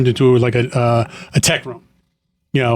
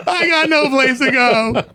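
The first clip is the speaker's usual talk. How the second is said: higher, slow, drawn-out movie-quote wail; Richard Gere line; 11 semitones higher, slower than usual. Retold or imitated. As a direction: stretch out the line like a desperate recruit in a film. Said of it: "I'm like Richard Gere in that".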